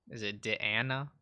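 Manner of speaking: "Deanna" with a short first vowel, dih-AN-uh. Shown as a demonstration. Streamer still unsure of the name, "Deanna" said dih-AN-uh. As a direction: try "Deanna" as dih-AN-uh, rising question. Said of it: "I can never pronounce anything".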